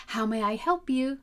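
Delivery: "help" rising cheerfully; upward inflection. Shown as a demonstration. Teacher repeating the phone greeting with an upward lift on "help". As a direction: lift "help" up like peeking over a hill. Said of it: "peeking over the hill".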